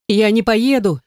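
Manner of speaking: high, desperate cry of refusal; a half-sung panicked yell, lifted up high; hysterical scream. A narrator's reading. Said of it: "в истерике закричала я".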